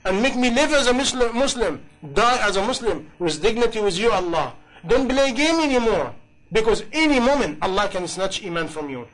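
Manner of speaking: a lightly acted supplication to Allah; heartfelt prayer.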